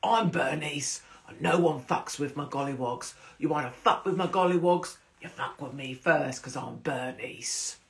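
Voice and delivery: lightly voiced menacing landlady; a hint of hard-woman threat; tough Bernice. Imagined Bernice guarding her Gollywogs, mild menace. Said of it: "I want her to sound like".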